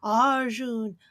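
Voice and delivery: low, eerie calling voice; forest spirit. Acted. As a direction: beckon him like haunted trees. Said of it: "The trees whisper again, lower, closer".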